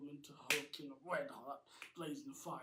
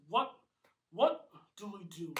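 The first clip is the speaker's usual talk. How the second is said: panicked; 4 semitones higher, 13 dB louder than usual. A narrator's reading. Surrounded by monsters.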